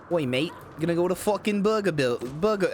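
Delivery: a weak, barely-there cockney attempt; failed British accent. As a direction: try a British accent and fall short. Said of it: "I can't, I can't do one".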